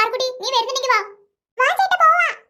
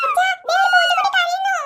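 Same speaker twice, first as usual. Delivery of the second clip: excited calling out; 4 semitones higher than usual. Acted. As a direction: shout it out, eager and alarmed. Girl spots crying kitten, calls father. (ആവേശത്തോടെ ഉറക്കെ വിളിച്ചു പറയുന്നു)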